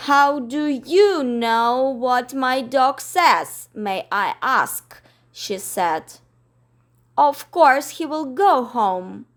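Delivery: slow, haughty question; huffy. Acted. Miss Lark questions Mary Poppins, slow and haughty. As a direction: look down your nose.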